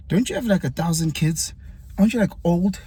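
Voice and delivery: playful teasing. Retold or imitated. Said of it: "He was being playful".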